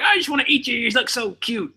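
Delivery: put-on high cooing baby talk. Parent gushing at a baby, in high baby talk. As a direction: gush over a cute baby.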